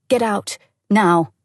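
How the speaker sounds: loud firm command; ordering. Acted. Friend orders the distraught woman out of the driver's seat, firmly. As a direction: snap the order at her. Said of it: "she ordered".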